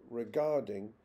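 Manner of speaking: "regarding" with GAR stressed; stress on second syllable. Shown as a demonstration. Lecturer's example of fixed word stress, second syllable stressed. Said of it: "is always stressed on the second syllable".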